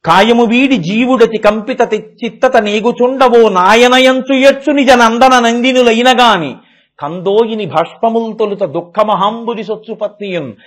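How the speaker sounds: measured, drawn-out poem recital; sing-song Telugu verse; slow verse recitation. Acted. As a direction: chant the Telugu padyam slowly and evenly.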